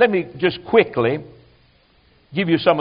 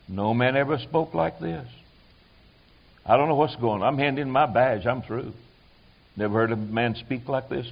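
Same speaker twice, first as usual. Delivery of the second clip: awed temple cop; 5 semitones lower, 9 dB quieter than usual. Acted. Temple police report back.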